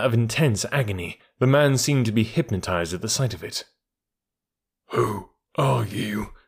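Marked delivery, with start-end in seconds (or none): 4.9-6.3 1 gasped question. A narrator's reading. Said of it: "he gasped".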